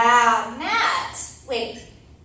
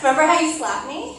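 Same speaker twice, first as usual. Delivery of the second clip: laughing; 4 semitones higher, 5 dB louder than usual. Acted. Laughing through a jab.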